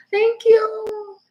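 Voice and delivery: touched by a viewer's thanks, fighting tears; getting emotional. Real, not acted. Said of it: "don't get me emotional".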